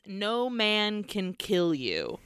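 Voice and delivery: slow, deliberate menace; slow, ominous. Acted. Hancock answers Walker, slow and ominous. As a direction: weigh each word out slowly.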